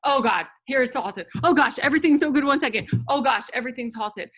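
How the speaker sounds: fast, loud, breathless mock panic swinging up and down; mock whiplash excitement. Coach showing the team the whiplash of chasing results, fast mock excitement. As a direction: rattle it off like emotions jerking back and forth. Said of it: "because you'll feel like".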